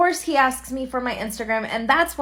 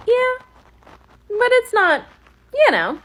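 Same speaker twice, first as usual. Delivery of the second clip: emphatic; 12 semitones higher, 6 dB louder, slower than usual. Real, not acted. Defending her outfit emphatically.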